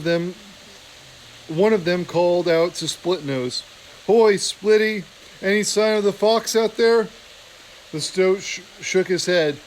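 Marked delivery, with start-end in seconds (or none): 4.1-7.1 higher, louder hail across the yard; calling out. Acted. Soldier hails Splitnose across the parade ground, calling out. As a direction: call across the snowy yard.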